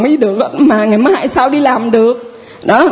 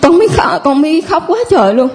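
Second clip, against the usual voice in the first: crying; 4 semitones higher than usual. Real, not acted. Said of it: "Khóc nữa".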